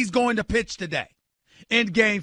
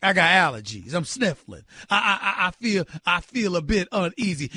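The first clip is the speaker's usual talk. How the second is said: mock timid excuse; 4 semitones lower than usual. Host imitates pitcher dodging a must-win game, timid stammer. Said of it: "going like this".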